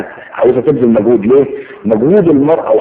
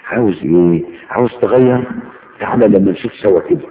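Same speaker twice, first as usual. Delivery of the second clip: put-on cooing to baby. Shown as a demonstration. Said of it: "قول له".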